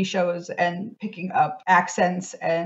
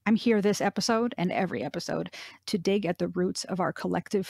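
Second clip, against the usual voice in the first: measured, even podcast intro read; scripted podcast intro; 7 dB quieter than usual. Acted. Host opens the show for listeners, measured scripted intro.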